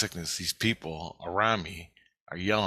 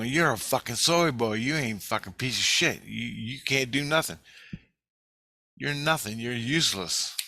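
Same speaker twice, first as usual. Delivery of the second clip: half-raised insulting yell; retold brutal yelling; 4 semitones higher than usual. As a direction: imitate people hurling insults in a higher voice. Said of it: "They were yelling brutal things".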